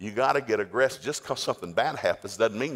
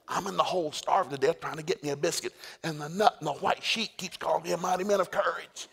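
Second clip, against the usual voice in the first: high-pitched comic complaint; whiny Gideon; 6 semitones higher than usual. Retold or imitated. Gideon complains to camera crew, high whiny voice. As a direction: whine like a put-upon wimp. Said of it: "Gideon out of his own admission".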